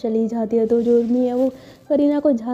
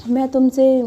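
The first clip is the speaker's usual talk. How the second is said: halting, broken confession full of pauses; nervous stammer; slower than usual. Acted. Shy girl confessing to Kareena, nervous halting stammer. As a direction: stumble and restart every few words. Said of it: "बहुत ज़्यादा गड़बड़ गड़बड़ बोल रही होती है".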